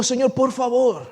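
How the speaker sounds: slow, drawn-out appeal; pleading. Acted. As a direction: beg as a last attempt. Acted pleading with Jesus.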